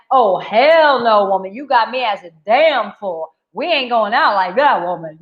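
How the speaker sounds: a hint of a swaggering man saying no way. Imitating a husband rejecting his wife's one-time deal, mock tough. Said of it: "That's my man voice".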